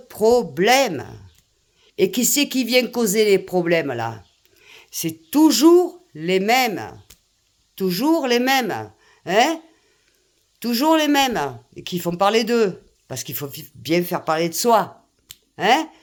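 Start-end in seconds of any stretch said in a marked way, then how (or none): 4.9-11.6 toujours leaned on hard each time, slow and falling; heavy stress. Real, not acted. Ranting to her viewers, toujours pressed slow and heavy. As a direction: spell it out, toujours les mêmes, word by word. Hammering a repeated accusation.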